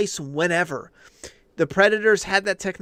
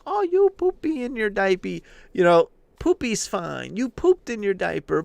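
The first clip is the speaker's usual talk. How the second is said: put-on cooing baby talk; 3 semitones higher than usual. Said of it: "where you're like".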